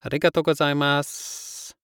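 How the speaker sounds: "gozaimasu" with the final S trailing off. Shown as a demonstration. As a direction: say "gozaimasu" with the end fading on S. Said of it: "trail off with the S on the end".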